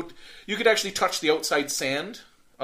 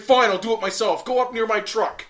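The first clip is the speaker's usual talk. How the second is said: annoyed ranger; 5 semitones higher, 5 dB louder than usual. Retold or imitated. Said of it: "and he's like".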